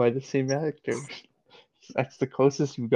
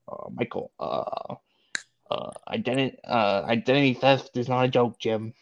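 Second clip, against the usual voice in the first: Dwight; 2 semitones lower than usual. Acted. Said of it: "do a Dwight impression vocally".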